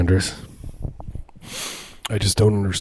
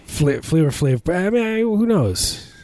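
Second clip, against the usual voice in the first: high squeaky voice; 8 semitones higher, slower than usual. Pretend. Jokey squeak.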